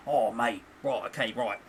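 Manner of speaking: mock-weary Essex storyteller; Essex boss. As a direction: imitate a boss telling his tale in Essex accent. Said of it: "My boss speaks like that".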